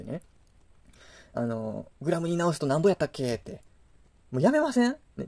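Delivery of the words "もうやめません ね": exasperated plea. Real, not acted. Ranting plea to stop units.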